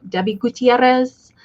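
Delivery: "Gutierrez" with the R's rolled. Real, not acted. Host greeting a chat viewer by name, rolling the R's in "Gutierrez". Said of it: "I can't roll my R's like that".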